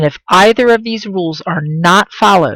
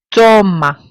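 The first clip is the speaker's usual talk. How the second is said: Toma, weight on the TO; penultimate stress; 2 semitones higher than usual. Shown as a demonstration. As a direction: stress the first syllable of Toma. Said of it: "Look, second to last".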